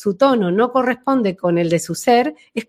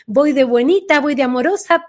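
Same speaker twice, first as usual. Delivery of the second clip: mock sweet voice; 5 semitones higher than usual. Shown as a demonstration. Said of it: "que es como decir".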